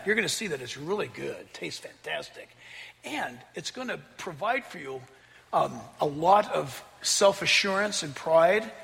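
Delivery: softly voiced, coaxing snake; a hint of the persuasive serpent, hushed; tempting Satan. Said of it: "it's Satan speaking through the snake".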